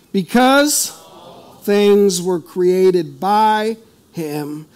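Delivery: slow, measured reading of the passage; slow scripture reading. Shown as a demonstration. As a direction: read each phrase slowly and solemnly. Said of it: "I'm gonna read it slow".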